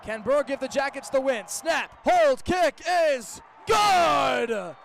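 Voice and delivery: usual speaking voice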